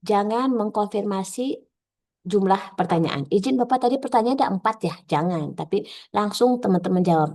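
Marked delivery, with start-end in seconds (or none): 3.3-4.9 higher-pitched, quick checking question; acted participant's query. Trainee checking the question count with examiner, acted query. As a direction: ask it as a polite, slightly hurried trainee.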